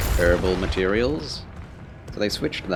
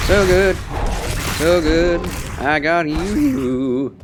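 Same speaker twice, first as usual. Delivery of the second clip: excited shout; 9 semitones higher, 5 dB louder, slower than usual. Real, not acted. Streamer thrilled by game damage.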